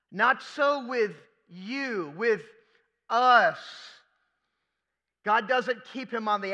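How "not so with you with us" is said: slow, weighted Not so with you; drawn-out stress on Not; slow and emphatic. Shown as a demonstration. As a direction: spell it out slowly for the congregation. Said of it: "I want you to see this".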